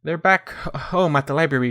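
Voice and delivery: plain reading voice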